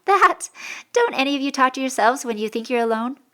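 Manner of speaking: high, loud, dismissive "That?"; feigned nonchalance. A narrator's reading. Covering up after forced laugh.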